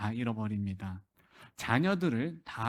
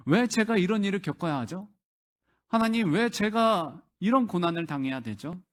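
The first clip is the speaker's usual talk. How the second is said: higher-pitched imitation of a complaint; challenging God; 5 semitones higher, 3 dB louder than usual. A sufferer questioning God about hardship, mildly challenging. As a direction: plead "why me" as a sufferer would. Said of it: "이렇게 하나님께 따지진 않습니까".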